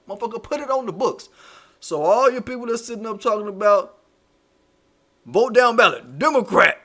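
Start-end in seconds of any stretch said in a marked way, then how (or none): 1.8-6.8 louder, preachy mock of a political commentator; a hint of a pundit pushing a slogan, louder; Tone Talks voice. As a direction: lean in like you're lecturing the crowd. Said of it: "in my Tone Talks voice".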